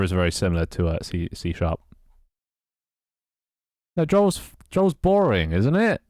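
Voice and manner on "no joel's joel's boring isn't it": teasing. Real, not acted. Teasing reaction, high pitch.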